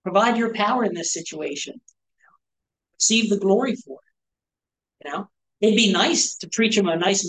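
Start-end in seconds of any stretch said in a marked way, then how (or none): 0.0-5.0 slow, hushed prayer, dropping to a whisper. Shown as a demonstration. Pastor modeling a prayer for healing, hushed and slow. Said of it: "we should say".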